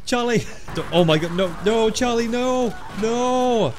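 high, loud, hammed-up wailing shouts; mock-anguished cries. Gamer crying out over Charlie in the game, mock-anguished shouts. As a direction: cry out as if losing a comrade.

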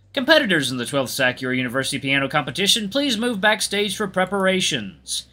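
formal public-address voice; measured announcement, slowing toward the end; competition announcer. Acted. Voices lobby sound system announcement.

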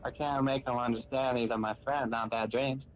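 lightly voiced child with a hint of southern accent; girl reading her diary with a slight southern twang; little girl voice. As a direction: read it as a small girl's diary. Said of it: "What kind of voice was that?".

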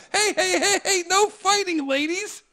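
high loud laughing call. Retold or imitated. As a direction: shout to break up a fight. Breaking up fight.

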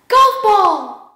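high, loud cartoon shout; squeaky excited cartoon call. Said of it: "Can you show us?".

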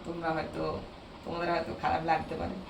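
hoarse, strained voice from a sore throat. Real, not acted. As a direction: talk through a hoarse throat. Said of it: "আমার গলাটা বসে গেছে".

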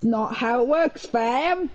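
attempted Australian accent, sounding rather British; lightly put-on Australian-British accent; accidental Australian accent. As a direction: slip into a loose Australian accent. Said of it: "Why did I go Australian?".

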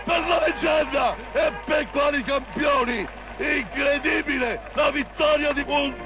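breathless italian goal commentary. Real, not acted. Goal call for Italy.

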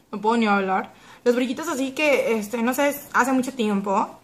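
speaking with sticky lips; lips coated with tint. Real, not acted. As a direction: stiff gel on lips. Seen 0: Thick glossy red tint layer coats her lips throughout the words.

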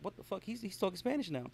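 high, puzzled mock reaction; imitated listener surprise. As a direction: act out a confused listener. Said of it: "You're like".

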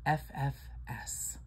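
whispered slowly, letter by letter. Shown as a demonstration. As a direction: breathe F F S slowly as a secret. Saying the naughty abbreviation.

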